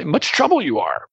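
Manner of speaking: much trouble fronted and stressed; Yoda-style fronting with stress; emphasis on much trouble. Shown as a demonstration. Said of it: "one would be for emphasis".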